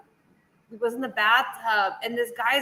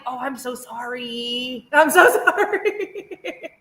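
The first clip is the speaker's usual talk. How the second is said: drawn-out apology breaking into laughter; laughing, wincing sympathy; mock-pained apology; slower than usual. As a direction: stretch it slowly, then laugh through it. Mock apology to husband during gore.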